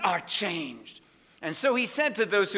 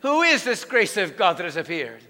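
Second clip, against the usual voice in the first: a louder, pressing repeat of the question; asked louder; 4 dB louder than usual. Shown as a demonstration. Preacher pressing a quiet congregation for a louder answer. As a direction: ask it again so the back row hears. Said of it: "you said it too softly".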